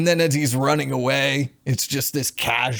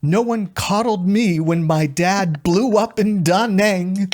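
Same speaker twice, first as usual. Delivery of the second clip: hammed-up higher, louder character quote; Janet; 7 semitones higher, 5 dB louder than usual. Host repeats favorite line after the clip, mock indignation. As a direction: mimic an outraged movie line with relish. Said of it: "Janet says".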